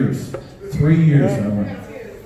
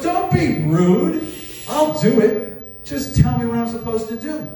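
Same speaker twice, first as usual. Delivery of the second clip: put-on girlfriend voice; 6 semitones higher, slower than usual. Girlfriend voiced, high slow.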